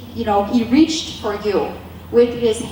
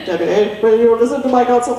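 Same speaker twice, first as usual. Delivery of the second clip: louder, fast insistent repeat; God pressing Debbie to listen, louder; 5 dB louder, faster than usual. Acted. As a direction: press the question firmly.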